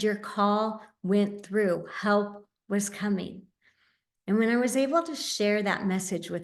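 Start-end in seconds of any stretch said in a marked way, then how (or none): 0.0-3.5 put-on slow, gentle telling to a little boy; tender reassurance. Mother telling her young son his call brought help, slow and tender.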